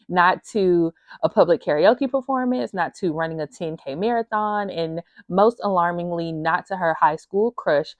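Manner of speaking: reading the back cover aloud, a light read-aloud lilt; blurb reading. Acted. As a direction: present the book blurb like a teaser.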